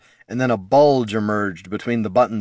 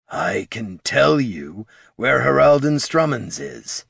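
gravelly disguised voice; 3 semitones higher, slower than usual. Acted. Disguised informant still gravelly.

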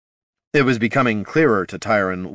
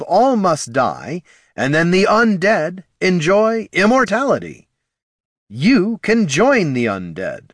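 slow, booming proclamation voice; undead herald; 6 semitones higher, 4 dB louder than usual. Acted. Undead recruitment pamphlet voice.

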